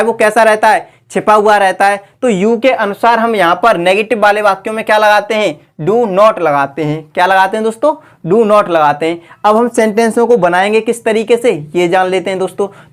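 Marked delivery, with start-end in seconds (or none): 5.8-7.1 drawn out, every word weighed; slow emphatic answer. Shown as a demonstration. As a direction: spell out the answer slowly for the class. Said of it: "teacher repeats the key answer". (धीरे, ज़ोर देकर)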